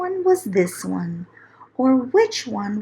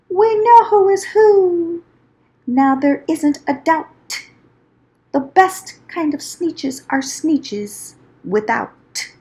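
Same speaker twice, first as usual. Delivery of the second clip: higher and louder, a proud triumphant cry; shout; 4 semitones higher, 4 dB louder than usual. Acted. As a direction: crow it out with snoots in the air. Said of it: "they let out a shout".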